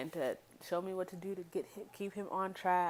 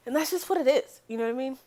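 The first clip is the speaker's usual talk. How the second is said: emphatic; 8 semitones higher, 9 dB louder than usual. Real, not acted. Defiant emphatic wrap-up.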